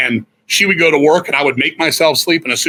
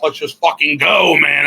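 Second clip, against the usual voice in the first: retold shout. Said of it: "He's like".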